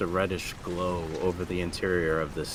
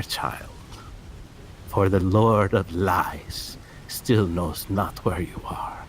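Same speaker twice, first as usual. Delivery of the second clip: put-on old hag. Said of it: "her voice crackles like dried weeds".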